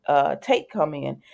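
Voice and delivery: ordinary talk, nothing marked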